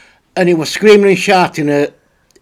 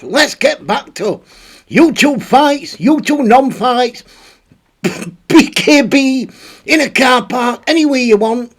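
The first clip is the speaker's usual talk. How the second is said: hyped-up announcer; 5 semitones higher than usual. Acted. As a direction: sell the next segment like a showman. Hyping up the fun segment.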